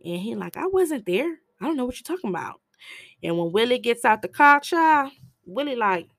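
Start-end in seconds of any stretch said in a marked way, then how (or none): 0.6-2.6 pitched way up, rushed and defensive; nervous brother blurting it out; high panicked denial. Retold or imitated. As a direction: squeak out a fast denial. Brother denies being there, panicked.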